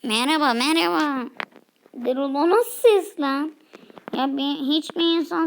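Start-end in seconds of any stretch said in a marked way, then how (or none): 0.0-1.3 stiff, even robotic greeting. Acted. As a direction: greet like a machine. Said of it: "Erol'un sesi robot".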